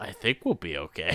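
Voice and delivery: slow, very quiet, barely audible mutter under breath. Retelling a movie scene where she says a line, muttering the line. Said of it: "like, mutters".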